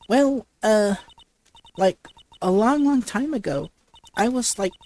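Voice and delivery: put-on bubbly valley girl, lots of "like"; ditzy valley girl. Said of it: "like a valley girl would talk".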